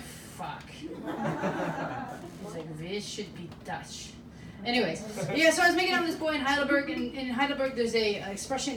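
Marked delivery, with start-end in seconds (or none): 0.0-4.1 mock Hitler. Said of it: "Hitler got here and went".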